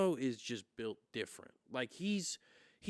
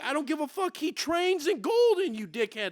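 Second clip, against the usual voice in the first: yelling, far higher and louder; drunken rage; 10 dB louder than usual. Retold or imitated. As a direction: yell at the cheering strangers in a drunken rage. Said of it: "in my drunken rage".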